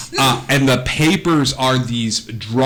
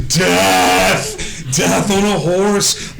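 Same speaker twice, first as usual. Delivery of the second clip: higher, drawn-out cry of awe; mock dramatic exclamation; 6 semitones higher, much slower than usual. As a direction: proclaim it like a dramatic announcement. Acts onlooker's reaction to horseman.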